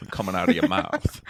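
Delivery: echoing a mock Southern accent; joking old-fashioned Southern accent. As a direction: play along in an old-school Southern accent. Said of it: "sixties Southern accent".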